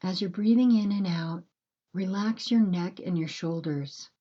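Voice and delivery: calm, unhurried breathing guidance with long pauses; gentle bedtime meditation voice, measured and spacious; guided meditation. Acted.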